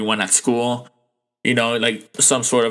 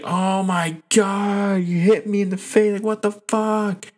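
mock agonized yell; 9 semitones higher than usual. Bully struck in the face by Jane, mock agonized wail. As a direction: imitate a hurt girl wailing in outrage. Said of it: "she's yelling in agony".

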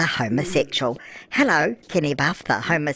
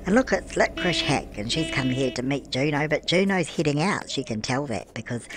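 put-on a chatty old granny gushing over her Sims game; doddery granny cooing "love" at everything; Nana Beryl. Old granny narrating her game to the viewers, doting and tipsy. Persona voice held throughout.

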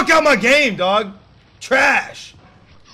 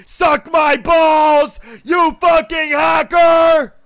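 drawn-out furious yell at the other players; slow, loud, cursing taunt; angry yelling; 3 dB louder, slower than usual. Real, not acted. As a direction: bellow the insults slowly at the lobby. Yelling at enemy players online.

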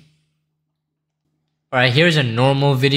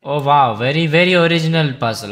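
sarcastic; 3 semitones higher, 5 dB louder, faster than usual. Real, not acted. Sarcastic reaction to chess puzzle.

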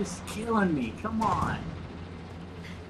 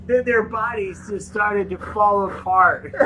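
halting mock Russian, breaking into laughter; 4 semitones higher, 4 dB louder than usual. Player reading to laughing friends, mock Russian accent. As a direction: struggle through the Russian accent while giggling.

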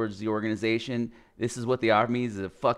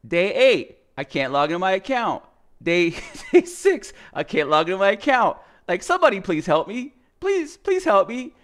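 higher, louder, fast mock pleading; pleading complaint; 7 semitones higher, 5 dB louder than usual. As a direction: rattle off the failed days, begging at the end. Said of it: "and I'm like".

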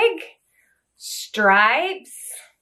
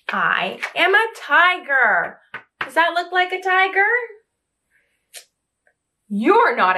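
lively storybook reading, voices rising for questions; reading to children. Acted. Reading I Am Tiger aloud to young children, lively and animated. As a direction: read it like a bedtime picture book to little ones.

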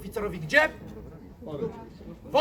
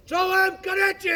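slow, high barked greeting; drill sergeant shout; 8 semitones higher, 6 dB louder, slower than usual. Shown as a demonstration. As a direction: bellow it like a corporal. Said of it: "i głośno".

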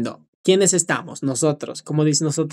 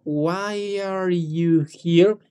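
long, continuous, drawn-out "Why are you here?"; slow but linked; much slower than usual. Shown as a demonstration. Teacher shows it can be slower, slow and unbroken. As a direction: stretch "Why are you here?" very slowly without breaking it. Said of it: "No importa decirlo más lento como".

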